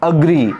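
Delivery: अग्री said as "uh-gree"; teacher's correction, अग्री set apart; corrected schwa start. Shown as a demonstration. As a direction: start अग्री with short "uh", falling at the end. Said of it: "ये एग्री नहीं है".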